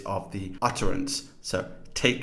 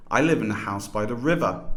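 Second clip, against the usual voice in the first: "river" carries the main pitch movement; tonic stress on river. Shown as a demonstration. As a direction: make "river" the most prominent word. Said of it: "River here is answering the question where".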